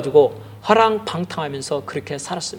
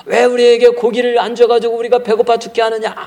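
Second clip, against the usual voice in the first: grumbling complaint; 6 semitones higher, 3 dB louder than usual. Acted. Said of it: "막 모세에게 막 욕을 합니다".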